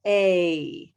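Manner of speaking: "A" ending on a green-like E; gliding A sound. Shown as a demonstration. Teacher modelling the A glide a third time. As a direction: glide "A" to end near "green". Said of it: "We end up at green".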